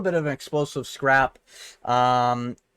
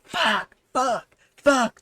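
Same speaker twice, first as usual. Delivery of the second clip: high, pained fighter yelps, lightly done; fighter's eye-poke cries, mildly mocked; mimicked pained yells; 8 semitones higher, much slower than usual. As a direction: imitate the fighter cursing in pain. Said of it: "he was screaming".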